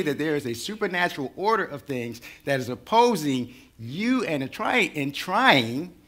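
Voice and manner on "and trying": trying leaned on, a bit louder; the word trying given a firm push; stress on trying. Shown as a demonstration. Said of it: "I emphasize the word trying".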